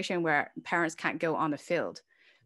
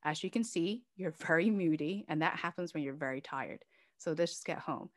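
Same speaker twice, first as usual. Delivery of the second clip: put-on softer, calming words to an upset child; soothing mother; 5 dB quieter than usual. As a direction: gently talk her down. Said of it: "and say".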